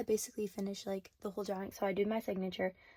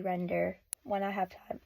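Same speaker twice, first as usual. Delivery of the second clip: voice crack. Real, not acted. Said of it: "Holy voice crack".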